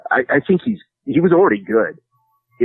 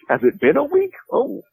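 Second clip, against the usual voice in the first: mock dazed John. Mimicking John losing track.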